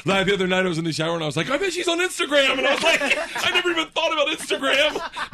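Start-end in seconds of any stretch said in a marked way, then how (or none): 1.5-5.3 higher, louder excited thought; mock excited realization. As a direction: blurt the shower idea eagerly. Retold excited shower thought.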